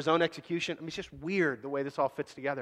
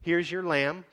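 angel cries out. Retold or imitated. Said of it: "cries out and says".

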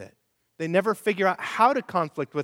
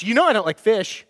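lightly acted snappy retort, raised and louder; mock irritation; 4 semitones higher, 5 dB louder than usual. Wife answers husband about the appetizer, mildly irritated. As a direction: play a touch of marital annoyance.

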